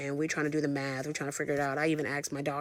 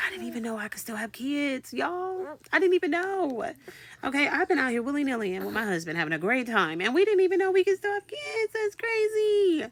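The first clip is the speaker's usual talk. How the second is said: very high, comic wail building louder; squealed disbelief; 10 semitones higher, 3 dB louder than usual. Acted. Mother amazed she could still have kids, squealed disbelief. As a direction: squeal it out, stretching the last words.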